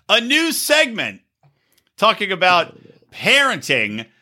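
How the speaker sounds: slow showy segment intro; announcer build-up. Acted. Host introduces new parenting segment, slow announcer tease. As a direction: drag it out like a host teasing a new bit. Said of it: "I will introduce right now".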